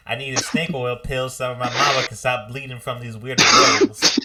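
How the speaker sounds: put-on high, begging young greenhorn; pleading greenhorn. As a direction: beg the old man desperately. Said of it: "But like".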